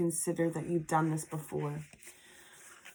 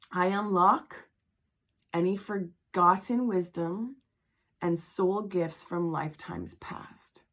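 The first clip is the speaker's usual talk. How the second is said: whispering; slower than usual. Shown as a demonstration. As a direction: whisper it slowly. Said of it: "whisper the following".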